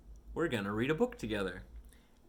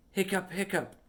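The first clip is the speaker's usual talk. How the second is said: higher, hiccupping out each word; hiccup sounds; 8 semitones higher, 5 dB louder than usual. Acted. Kitty Pete hiccupping for the listening child, playful hiccups. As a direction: hiccup it like a kitten.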